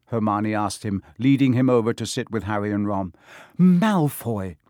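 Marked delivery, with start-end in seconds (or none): 3.6-4.6 high, shaky cry of a name. A narrator's reading. Shaken boy names his bully to friends, shakily. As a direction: say it shakily, pitched up. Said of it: "said Neville shakily".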